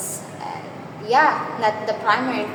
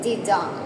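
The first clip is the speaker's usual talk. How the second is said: "didong" with a light di and a weighty dong; stress on second syllable; 5 semitones lower, 4 dB quieter than usual. Shown as a demonstration. Teacher sounding out an iamb for the class, stress on the end of "didong". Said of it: "an stressed syllable followed by a stressed syllable".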